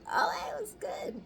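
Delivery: soft unvoiced whisper. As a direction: breathe it, no voice. Imagined reply, unvoiced.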